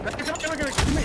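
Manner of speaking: grenade warning yell. Real, not acted.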